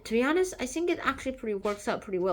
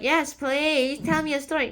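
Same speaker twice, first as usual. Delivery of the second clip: higher-pitched, mildly pleading acted request; eager request; 5 semitones higher than usual. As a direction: ask eagerly, lifting the pitch. Lady eagerly asks for a story.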